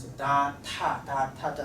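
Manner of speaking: da voiced, ta with a puff of air; da versus ta contrast. Shown as a demonstration. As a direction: set da against ta. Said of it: "The difference between this one and this one".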